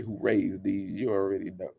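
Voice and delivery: soft, muted take of the question; hushed repeat. Real, not acted. Repeating the question softly to viewers. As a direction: say it under the breath. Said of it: "Y'all know what I wanna say".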